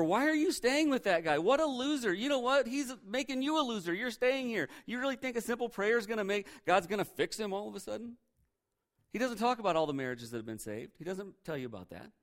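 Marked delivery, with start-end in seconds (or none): 0.0-8.2 high-pitched, scornful nagging; goading tempter. Acted. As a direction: needle them in a raised pitch. Acting tempter goading an unhappy wife.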